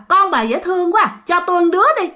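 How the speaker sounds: high-pitched spirit voice; acted ghost's creepy request; coveting ghost. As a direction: ask for the child in a high, eerie wheedle. Ghost repeats its request for child.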